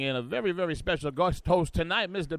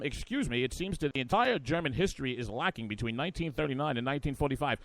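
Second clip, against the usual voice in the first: Brian; 2 semitones lower, 4 dB quieter than usual. Retold or imitated. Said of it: "And he's like, um".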